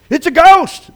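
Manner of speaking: high, loud panicked cry; terrified cry. Acted. Disciples see a figure on the water, terrified loud cry. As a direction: shout it out in fright. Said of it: "they cried".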